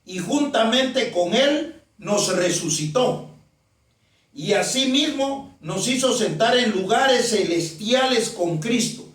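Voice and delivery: slow, deliberate Bible reading; slow scripture reading. Real, not acted. Preacher reads Ephesians to the congregation, slowly. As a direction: read the verse out slowly and emphatically. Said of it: "Sigo diciendo".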